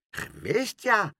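high, mocking echo; scornful amusement. A narrator's reading. Mevrouw Helderder mocks the boy's protest, scornful amusement. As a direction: throw the word back tauntingly. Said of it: "lachte mevrouw Helderder".

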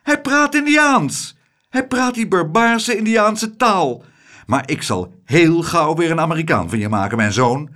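high and loud, gushing; a grand lady sure she is right; triumphant rich lady. Acted. Rich lady tells the ladies her son speaks Indian, high and loud.

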